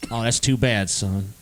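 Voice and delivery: low, softly falling mock disappointment; disappointed. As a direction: let him down with a quiet, disappointed drop. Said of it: "a disappointed, like".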